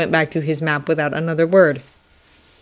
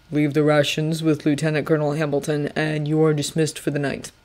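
General Washington; 2 semitones lower, 5 dB quieter than usual. Acted. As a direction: speak like a calm stern general. Washington without looking up.

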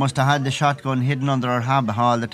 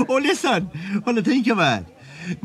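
laughing; 5 semitones higher than usual. Real, not acted. Still laughing after the story.

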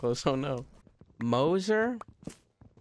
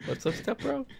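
mock step-bro line; 13 semitones higher than usual. Joking greeting in put-on voice.

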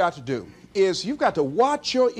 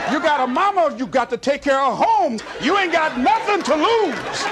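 self pep talk. Retold or imitated. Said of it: "started talking to myself".

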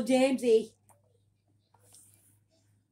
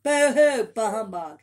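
mock boo hoo; 8 dB louder, slower than usual. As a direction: fake a loud crying boo hoo. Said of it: "It scared ya".

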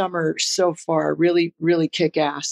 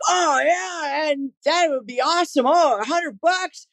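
put-on much higher, fast, delighted young guy; thrilled stranger; 8 semitones higher than usual. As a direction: voice the worker jumping at a hundred bucks. Stranger thrilled by cash offer.

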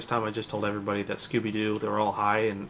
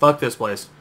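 mock fed-up shout; 7 dB louder, slower than usual. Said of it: "I'm like".

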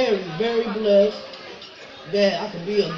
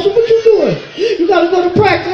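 quoting mama; 9 semitones higher, 9 dB louder than usual. Retold or imitated. Mama quoted.

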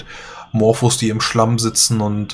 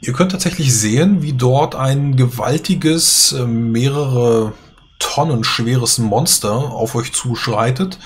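game master scene setting. Acted. GM describes the monster.

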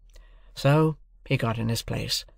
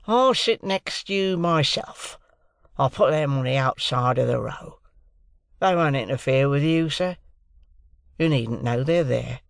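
keeper's soothing assurances; pleading keeper; 2 semitones higher than usual. A narrator's reading. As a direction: plead with an angry passenger to give way. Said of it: "pleaded the keeper to the angry passenger".

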